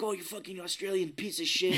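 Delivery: stage a fake argument, amused; mock fighting. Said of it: "act like we're fighting".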